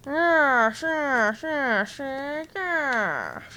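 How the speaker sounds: muffled by a pillow in mouth; mouth full. Real, not acted. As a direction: talk around a pillow in your mouth. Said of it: "Got a pillow in my mouth".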